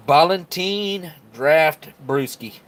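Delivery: drawn out, high and loud; announcer flourish. Real, not acted. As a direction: present it like a game show host. Announces the beer with flair.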